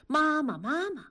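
2 掉进沟里的孩子，调子高高地哭喊; 3 吓坏的小孩儿带哭腔叫妈妈，轻描淡写; 1 哭喊妈妈. Acted. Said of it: "吓得大哭起来，叫着". (4 孩子摔进沟里吓得哭着喊妈妈)

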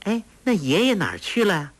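a hint of a sweet coaxing young girl; lightly voiced clever girl. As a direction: lift the voice a little to coax a simple girl. Huang Rong asking sweetly.

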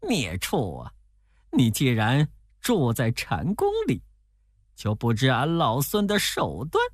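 a lightly voiced sneering monkey king; mild mocking threat, rising to a high end; scornful, understated menace; cold sneer. A narrator's reading. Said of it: "呵呵冷笑着说".

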